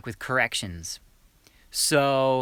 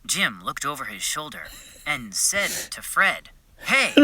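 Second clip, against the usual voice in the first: playback of mock read; 4 semitones higher than usual. Shown as a demonstration. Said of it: "I'll play it back for you guys".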